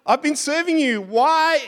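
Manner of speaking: a hint of a whining Jeremiah; complaining prophet. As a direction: plead like a frustrated prophet, mildly. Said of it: "he's like".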